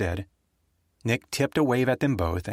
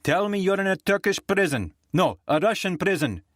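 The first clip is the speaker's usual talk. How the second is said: high, biting sarcasm; scornful woman; 9 semitones higher than usual. Acted. Rita taunting Nick about prison, high and sarcastic. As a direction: wish him somewhere awful with relish.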